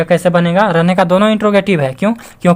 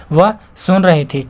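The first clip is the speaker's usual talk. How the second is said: slow read; slower than usual. Shown as a demonstration. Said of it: "देखिए".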